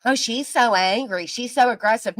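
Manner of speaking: imitating whiny accusers' gossip; mocking critics. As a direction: mimic the critics, stretching out the words. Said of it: "that's what they say".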